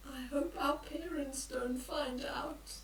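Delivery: whispered, worried secret. Acted. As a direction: whisper it so parents won't hear. Repeated secret line.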